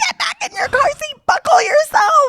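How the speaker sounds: very high-pitched, shrill scream. Retelling screaming at a toddler in the car: imitating own screaming. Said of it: "And then I'm screaming in the car".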